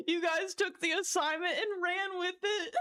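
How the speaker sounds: words wobbling with a laugh that is almost a sob. Real, not acted. Streamer thanking chat for the puns, laughing near tears. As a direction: let the laugh break up the line. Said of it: "thank you so much for that laugh".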